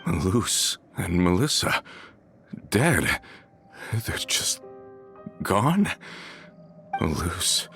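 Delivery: halting, disbelieving questions, long pauses; stunned grief. Acted. Hears that friends are dead, stunned and halting.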